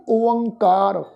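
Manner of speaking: slow, measured recital in short phrases; scripture recitation. Retold or imitated. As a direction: recite the verse with drawn-out words. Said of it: "ਉੱਥੇ ਮਹਾਰਾਜ ਜੀ ਕਹਿੰਦੇ ਆ ਵੀ". (ਬਾਣੀ ਦਾ ਠਹਿਰਾਅ ਵਾਲਾ ਪਾਠ)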